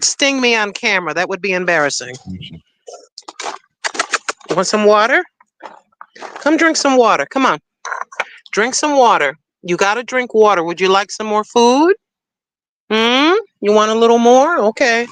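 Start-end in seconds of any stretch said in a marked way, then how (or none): 4.5-15.1 talking to the cat. Acted. Sister coaxing her cat to drink water, gently coaxing. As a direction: coax the cat to drink like a baby.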